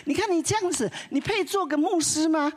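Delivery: high, loud retold scolding, meant for the whole building. Husband scolding his pastor wife at the open door, high and loud. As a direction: yell it out so every neighbour hears. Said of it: "故意大声的骂说".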